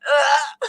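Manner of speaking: disgusted groan of recollection; imitated "ugh". Streamer retelling her reply about the dead mouse, disgusted groan. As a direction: groan as if reminded of something gross. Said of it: "And I'm like".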